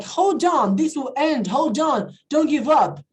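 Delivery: mock pep talk for a struggling friend; motivating. Shown as a demonstration. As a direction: urge a friend to hang in there. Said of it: "it's like you're motivating him".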